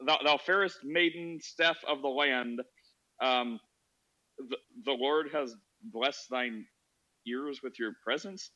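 lightly mock-archaic, slowed courtly address; a hint of a solemn herald greeting Steph; King James English. To Steph, mock-archaic greeting, lightly voiced. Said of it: "we're trying to talk in King James English".

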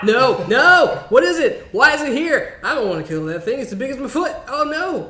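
high-pitched horrified refusals; mock panic. Acting out her panic at roach.

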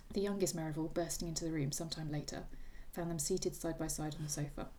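reading a novel aloud with light character voices; lively book reading with hinted voices; story reading. A narrator's reading. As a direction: read the final chapter to a friend. Reads the novel's ending aloud.

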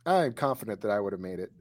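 soft, quick claim of confidence; quiet, hurried, not quite convinced; unconvincing confidence. Real, not acted. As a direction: claim it without much conviction. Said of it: "you don't sound confident".

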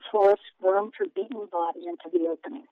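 steady storytelling read; story narration. A narrator's reading. Author reads her book aloud.

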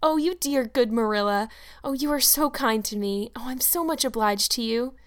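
overflowing gratitude toward Marilla; grateful young Anne. Acted.

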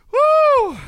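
high, loud cheer; excited whoop. Real, not acted. Cheering along with the podcast audience, excited whoop. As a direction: let out a big celebratory woo. Hyping up the live chat.

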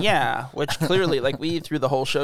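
talking through a mouthful; speaking between bites; chewing while talking. Real, not acted. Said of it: "You can hear me chomping on a sandwich".

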